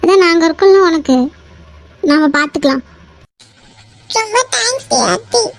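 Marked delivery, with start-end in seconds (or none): 4.1-5.4 weepy gratitude; crying a little as you say thanks; tearful thanks. Acted. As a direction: thank a friend through tears. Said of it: "இப்ப எதுக்கு நீ அழற".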